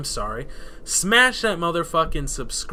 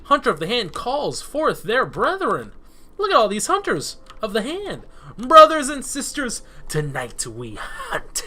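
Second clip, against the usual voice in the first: loud, higher, menacing war-chief; rally the hunters with grim menace; sinister voice; 5 semitones higher, 4 dB louder than usual. Acted. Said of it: "such a sinister voice".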